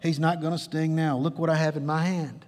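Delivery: put-on calm a frightened child, pitched low; reassuring father. Father to daughter after taking the sting, reassuring.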